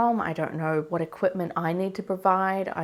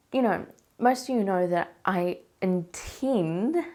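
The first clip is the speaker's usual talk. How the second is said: slow down and lean on "intend"; stress on intend; 2 semitones higher, slower than usual. Shown as a demonstration. Telling viewers her home water birth is only planned, stressing "intend". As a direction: give "intend" extra weight, drawn out. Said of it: "underline the word intend".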